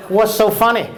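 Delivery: lightly imitated North Carolina accent; Southern accent. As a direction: mimic a Southern server's question. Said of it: "You have an accent".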